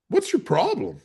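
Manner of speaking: sharp, high challenge to the rude bank officer; snippy retort. Retold or imitated. Customer snapping at a curt bank officer, high and sharp. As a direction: throw it at her, offended.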